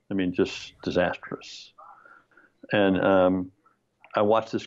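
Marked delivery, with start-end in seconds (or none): 0.1-1.7 breathy whispered aside, slowed; hushed whisper. Real, not acted. Telling the host about the previews, whispered. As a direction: drop to a whisper on the verdict.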